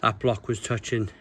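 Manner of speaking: breathless from straining; effort grunt. Real, not acted. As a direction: talk while catching breath. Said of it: "Sorry for all the grunting and the out of breath".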